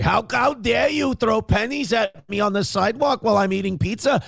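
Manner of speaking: high, whiny Jewish victim voice; yiddish accent. Retold or imitated. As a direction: play the wounded victim. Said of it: "you go".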